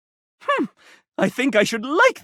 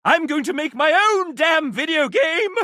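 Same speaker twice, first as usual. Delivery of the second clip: defiant shout; 10 semitones higher than usual. Acted. Dev character vowing to make his own game, shouting. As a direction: yell it like a battle cry. Developer declares his ambition.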